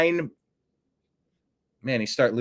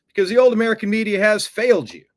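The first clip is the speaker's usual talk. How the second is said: emphatic; 8 semitones higher, 6 dB louder, faster than usual. Real, not acted. Punchline on failed old media.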